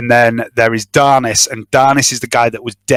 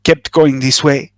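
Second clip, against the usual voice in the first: a lightly voiced nervous informant, spilling his story; nervous smuggler confessing. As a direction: talk like a worried smuggler who finally confesses. GM voices smuggler NPC monologue.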